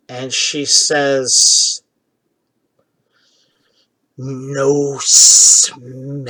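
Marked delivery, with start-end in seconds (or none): 4.2-6.2 slow creature speech, drawn out; lightly voiced creature. Confused animal answers about a stranger's scent, slow creature voice. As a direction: draw each word out like a puzzled animal.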